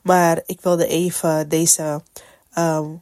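talking through a blocked nose; stuffy nose. Real, not acted. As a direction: speak with a stuffed-up nose from a cold. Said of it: "mijn neus is verstopt".

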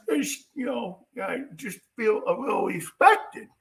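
mildly mock the precious star; a hint of a sulking quarterback; mock Rodgers. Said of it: "Aaron Rodgers".

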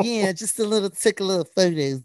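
giggling through the words; embarrassed laugh still in the voice. Real, not acted. Teased, laughing about modeling.

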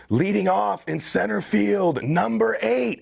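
booming ballpark announcer call, drawn out and high; stadium announcer. Retold or imitated. Retelling his dream, he calls out the lineup like a stadium announcer. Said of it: "and they say".

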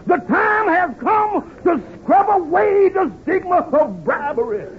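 slow, booming stump oratory; soapbox speech. Retold or imitated. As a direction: orate like a politician on a soapbox. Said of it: "made the greatest speech of my career".

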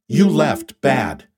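an alien friend scolding, word by word; Rocky alien voice. Acted. Rocky speaks.

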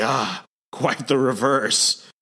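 slow, demonic monster voice; Sasquatch. Acted. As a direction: play an evil beast, drawing the words out. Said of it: "that more evil demonic Sasquatch".

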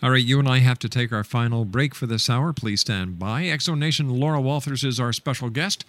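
lively radio host sign-off; talk-show host throwing to commercial; radio break announcement. Real, not acted. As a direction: announce the break, slowing to spell out the website.

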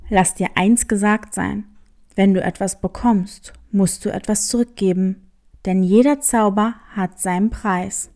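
low, sly tomcat questioning the hare; a low, sly cat sizing up a stranger; black cat voice. Acted. Cat warns, hare replies. (tiefe, listige Katerstimme)

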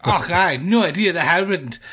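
put-on playful stab at a Scottish accent; mock Scottish accent. Co-host joking about a New Zealand accent, in mock Scottish. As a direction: put on a jokey Scottish brogue. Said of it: "that was your Scottish".

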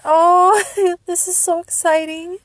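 high, loud "oh" into a laugh; real giddy delight; overjoyed excitement. Real, not acted. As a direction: squeal happily and laugh through it. Overjoyed at the album news.

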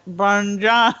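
clumsy imitation of beginner Italian; mock a learner's badly accented Italian; beginner's Italian accent. Co-host mimicking the movie's fake Italians, clumsy Italian accent. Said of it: "sounds like anyone beginning to try to learn".

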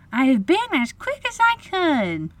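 put-on high little-girl voice, hurried; panting girl. A narrator's reading. Wendy rushes in with the glass, panting. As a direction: pipe it up as if just run in. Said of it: "she panted".

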